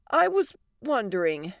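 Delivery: mildly hesitant; nervous. Acted. Wife about to ask husband a favor, slightly nervous. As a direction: ease into an awkward request. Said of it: "Allie said nervously".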